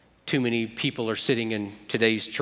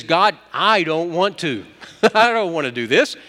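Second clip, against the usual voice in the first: reluctant plea; 3 semitones higher, 5 dB louder than usual. Acted. Moses refusing God.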